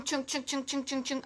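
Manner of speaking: rhythmic little chugs; playful train-like chugging; chugging noise. Shown as a demonstration. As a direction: chug along in even short beats. Hops along the map with noises.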